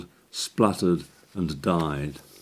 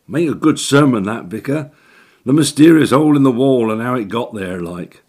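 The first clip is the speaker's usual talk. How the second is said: teasing sidekick; 5 semitones higher, 7 dB louder than usual. Acted. Jack teasing, loud.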